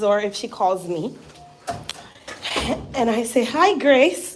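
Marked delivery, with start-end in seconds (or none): 3.4-4.3 light, slightly higher American greeting. Retold or imitated. Greeting her friend Grace on the phone, American voice. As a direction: put on a polite American accent. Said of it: "in my American voice".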